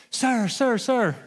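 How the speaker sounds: high call for attention. Retold or imitated. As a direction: call after someone leaving. Clerk calling out across lot.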